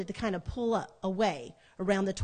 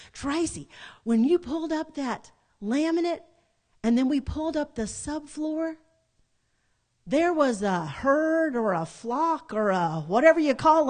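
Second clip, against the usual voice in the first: higher-pitched imitation of a southern sister; southern accent; 5 semitones higher, 3 dB louder than usual. Sister breaking news of what was under the floor, southern accent. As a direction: retell it in her southern accent. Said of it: "That's Tracy in her southern accent".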